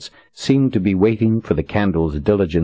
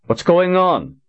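demanding; 14 semitones higher, slower than usual. Acted. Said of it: "he demanded".

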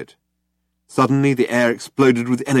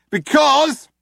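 loud, high warning; tough cop on a hailer; 6 dB louder than usual. A narrator's reading. Cop warning Zaphod, loud and high. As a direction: lay down the law. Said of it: "shouted the cop".

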